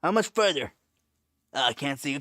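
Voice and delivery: high, loud call down a crawl space. Pretend. Crawling through ductwork, calling ahead loudly.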